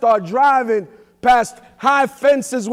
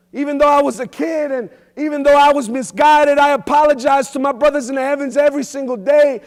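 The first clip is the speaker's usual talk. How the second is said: impassioned cry. Real, not acted. Impassioned apology to lost friends.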